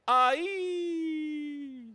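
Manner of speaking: long, high, loud cry; sustained high yelp; high-pitched yell. Acted. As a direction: let out a piercing drawn-out "aye". GM yells during the fight scene.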